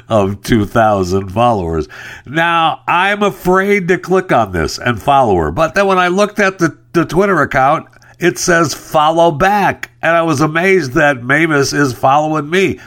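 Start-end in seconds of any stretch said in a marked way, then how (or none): 2.3-12.8 excited. Real, not acted. Excited disbelief at lottery offer.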